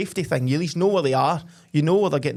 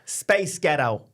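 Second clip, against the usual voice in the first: mock American accent; much slower than usual. Shown as a demonstration. Co-host trying the accent trick, American accent. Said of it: "in an American accent".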